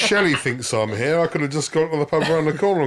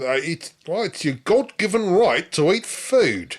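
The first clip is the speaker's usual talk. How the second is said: put-on Australian accent; 6 semitones higher, slower than usual. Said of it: "way better than my Australian accent".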